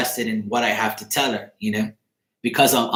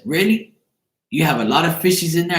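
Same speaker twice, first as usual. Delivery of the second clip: higher-pitched retold question from a little girl; mildly surprised child; 6 semitones higher than usual. Girl asking about the man's belly, mildly surprised child. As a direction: lightly imitate a child's wonder.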